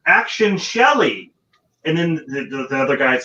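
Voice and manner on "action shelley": higher, louder call of action; repeated director's call. Retold or imitated. The director calling the actress a second time, mildly imitated call. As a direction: call it again, losing patience. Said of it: "he's like".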